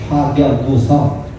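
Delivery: very slow, weighty delivery; slow solemn pronouncement. Retold or imitated. Bodhidharma answering the emperor, slow and solemn. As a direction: drag out each syllable like a koan. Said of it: "이렇게 얘기해요".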